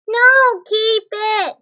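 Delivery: sudden high loud no; loud protest. Real, not acted. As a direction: cut them off, keep it. Child objects loudly.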